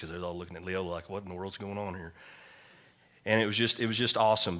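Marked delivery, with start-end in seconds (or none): 0.0-2.1 hushed aside. Retold or imitated. Congregation staring, hushed aside.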